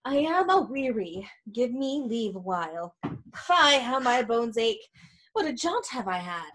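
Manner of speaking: pretending to be tired. Nurse stalling eager Juliet after an errand, feigned weariness. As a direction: play up the aches to stall. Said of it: "the nurse is pretending to be tired".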